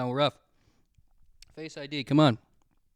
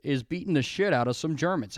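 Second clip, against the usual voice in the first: dramatic subtitle read; 3 semitones lower than usual. Pretend. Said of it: "Don't show me the words".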